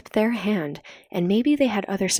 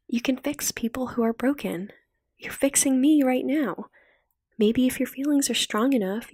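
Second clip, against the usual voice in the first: tender encouragement, lightly raised voice; lightly voiced Cookie; 4 semitones higher than usual.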